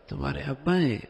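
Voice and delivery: quick, pleased "so this is your father"; pleased to meet. Shown as a demonstration. Meeting a child's father, pleased to meet him. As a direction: show mild pleasure at the introduction. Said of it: "یعنی ان سے مل کر خوشی ہوئی".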